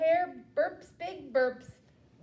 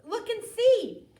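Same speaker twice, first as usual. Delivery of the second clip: a touch higher, soothing little mouse; squeaky mouse; 5 semitones higher than usual. Acted. Mouse calming the upset bear, lightly higher. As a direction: hush the bear like a tiny mouse. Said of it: "Mouse squeaks".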